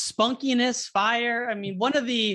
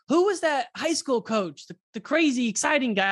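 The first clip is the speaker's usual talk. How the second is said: mock curious caller; 6 semitones higher than usual. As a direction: play a listener hunting for his name. Mimicking callers asking about coach.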